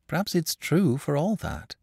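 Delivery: gently hopeful suggestion; encouraging. A narrator's reading. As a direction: offer hope to a doubting child. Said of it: "I replied encouragingly".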